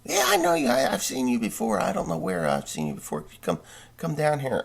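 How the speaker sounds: a hint of a rambling politician; mildly mocking old man voice; Creepy Joe impression. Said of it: "he says".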